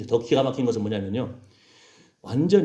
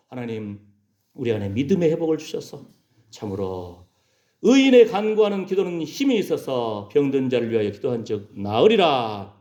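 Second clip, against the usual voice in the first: earnest prayer. Real, not acted. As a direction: pray solemnly, then proclaim the verse.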